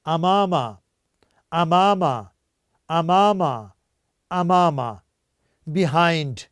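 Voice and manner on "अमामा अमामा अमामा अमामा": "अमामा" said clearly, a-ma-ma, falling at the end each time; repeat after me. Shown as a demonstration. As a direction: model "अमामा" slowly for the class to echo. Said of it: "आप मेरे साथ कहें". ("अमामा" साफ़-साफ़, हर बार गिरते सुर में)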